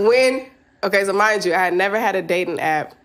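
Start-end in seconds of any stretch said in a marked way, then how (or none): 0.0-0.5 slowed, giggling plea to a friend; laughing plea. Real, not acted. Asking Tom not to judge her, laughing. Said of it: "Tom, don't judge me".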